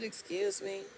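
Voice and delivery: high, shocked "Excuse me?"; outraged disbelief; indignant excuse me. Retold or imitated. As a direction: act offended, pitch jumps up. Offended caller to rude pharmacist.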